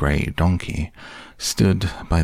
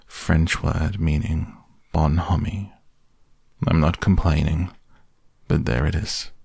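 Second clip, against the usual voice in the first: gloomy. Acted. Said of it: "went on Eeyore gloomily".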